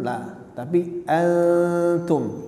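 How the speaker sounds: slow antum with the n hidden; ikhfa demo. Shown as a demonstration. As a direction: blur the n as ikhfa. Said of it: "hukumnya ikhfa, disamarkan". (contoh ikhfa pada antum)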